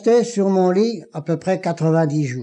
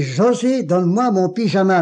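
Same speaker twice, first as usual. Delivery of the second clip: José lancé plus haut, plus appuyé; voix plus forte; 3 semitones higher than usual. Retold or imitated. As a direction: insister en haussant le ton. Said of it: "mais d'une voix plus forte". (appel plus fort à l'infirmière)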